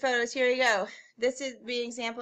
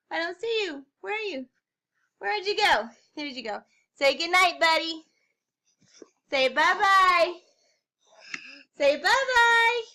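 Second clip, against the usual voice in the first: sleepy talk to pet; 6 semitones higher, 4 dB louder than usual. Real, not acted. Cooing to buddy at bedtime.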